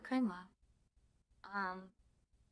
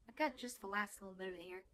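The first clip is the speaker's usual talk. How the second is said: talking while chewing; talking through a bite of roll; mouth full; 4 semitones lower, 5 dB quieter, faster than usual. Real, not acted. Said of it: "Now I got food in my mouth".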